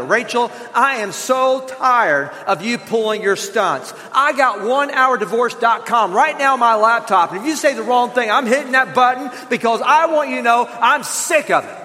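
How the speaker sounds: mock-angry husband, rising and pushing; hammed-up threat to the wife; husband snapping at his wife about divorce, mock angry; harsh angry tone. Shown as a demonstration. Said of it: "here's what oftentimes we say".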